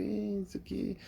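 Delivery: soft, fading mumble; low-energy quiet voice. Acted. Nervous candidate in a job interview, timid and barely audible. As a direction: let all the energy drain out. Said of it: "começa a falar baixo".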